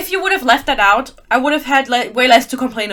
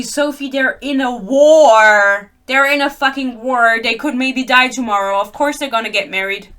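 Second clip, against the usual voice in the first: mock viewer argument; 5 dB louder than usual. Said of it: "you're gonna tell me".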